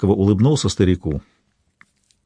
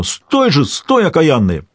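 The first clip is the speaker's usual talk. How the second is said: ringing call; 8 semitones higher, slower than usual. A narrator's reading. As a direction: shout it ringing across the yard to stop them. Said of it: "звонко выкликивая".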